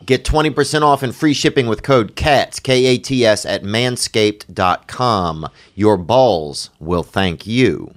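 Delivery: slowing down on the promo code; infomercial. Acted. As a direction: spell out the code, then slow down.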